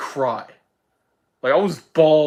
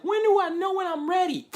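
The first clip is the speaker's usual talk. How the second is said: quoting Miles. Retold or imitated. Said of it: "It's like".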